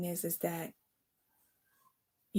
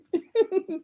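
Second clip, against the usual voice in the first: high laugh; 11 semitones higher, 4 dB louder than usual. Real, not acted. Laughing at her own bit.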